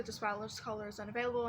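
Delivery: quick recorded operator voice; automated phone message. Retold or imitated. Imitating the phone's message when calling her friend again. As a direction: rattle it off like the carrier's recording. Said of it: "Still goes back to".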